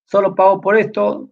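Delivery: happy and contented. Acted. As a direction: act out a naively pleased student. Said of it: "Yo todo feliz y contento".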